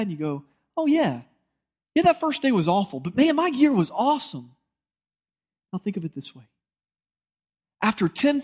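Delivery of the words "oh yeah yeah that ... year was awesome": higher, bright-eyed reply, brushing off the bad day; enthusiastic. Believer answering a friend, excited and upbeat. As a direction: gush that the year was great. Retold answer about a great year.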